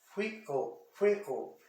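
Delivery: "Frickle" twice, each as frick, kle; syllable by syllable. Shown as a demonstration. Teacher showing the separated syllable, "Frickle" in two pieces. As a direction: model "Frickle" with a small break before kle. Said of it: "Separei a sílaba aqui".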